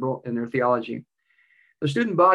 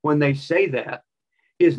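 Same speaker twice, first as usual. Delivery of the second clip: slow, measured reply; 4 dB louder, much slower than usual. Retold or imitated. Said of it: "He says".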